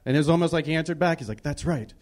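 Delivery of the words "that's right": mock Spanish-accented spokesman. Commercial guy answering the viewer back, mock Spanish accent. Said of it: "had a Spanish accent".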